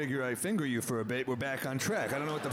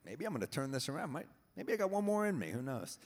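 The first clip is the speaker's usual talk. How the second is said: tentative hope; 4 semitones higher than usual. Retold or imitated. Hopeful talk to himself while making out.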